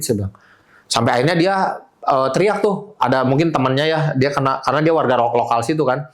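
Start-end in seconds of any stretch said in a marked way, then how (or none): none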